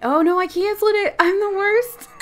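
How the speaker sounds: high, loud self-scolding; real dismay; high dismayed yelp. Real, not acted. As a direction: yelp at her own mistake. She cancels by mistake.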